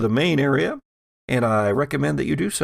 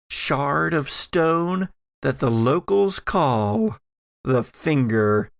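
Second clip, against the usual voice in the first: game master scene narration. Acted. GM sets the scene.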